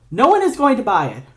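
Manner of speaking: scornful retort. Acted. Norman rejecting a fake greeting.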